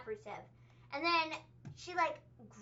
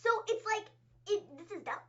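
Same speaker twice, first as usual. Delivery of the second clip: ordinary talk, nothing marked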